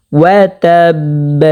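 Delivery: slow ওয়া তাব with the final ব bounced; recited ওয়া তাব, stopping on an echoed b; qalqala echo. Shown as a demonstration. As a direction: release the last ব of তাব with a small echoing bounce. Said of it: "কলকলা করতে হবে".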